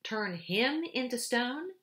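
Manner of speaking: slow, high, scoffing echo of the question; incredulous, amused repeat; amused disbelief. A narrator's reading. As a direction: beaver mocking the very idea. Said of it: "with a great laugh".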